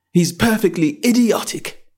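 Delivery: put-on a well-mannered girl asking; young Alice. A narrator's reading. Alice gives up.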